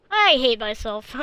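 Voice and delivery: laughing self-mockery, slow; amused groan at own blunder. Real, not acted. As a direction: laugh through the words.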